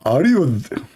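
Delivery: squeezed-throat attempt at a British accent; abandoned English accent. Shown as a demonstration. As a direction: start a British accent and give up. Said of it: "I cannot do it".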